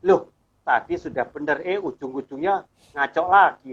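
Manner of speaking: retelling the mentor's irritated rebuke; angry boss. Retold or imitated. Mentor scolding his assistant, mildly angry imitated rebuke. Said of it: "Langsung dia marah".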